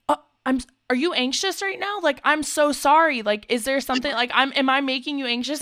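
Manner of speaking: high, anxious apologetic imitation; worried guy. Imitating a Tinder date fretting he made her anxious, high and worried. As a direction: mimic him fretting nervously over her. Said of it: "he, like, stops and he's like".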